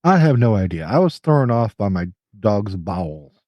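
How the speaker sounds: nose clipped shut; pinching nose. Real, not acted. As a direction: talk with a clip on your nose. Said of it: "I have put a clothespin on my nose".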